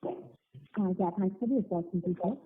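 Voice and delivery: very faint, far from the mic; barely audible. Real, not acted. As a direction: speak faintly, as if far from the phone. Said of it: "your voice is very low".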